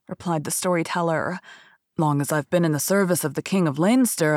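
lightly voiced despondent storyteller; despairing storyteller.

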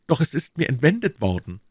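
put-on high-pitched young man protesting; aggrieved young D'Artagnan. D'Artagnan reports the theft. (gekränkter junger Mann, hohe Stimme)

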